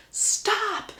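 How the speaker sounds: mild mock yell; mock scream. Passenger halting the carriage, mild mock scream. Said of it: "So he screams".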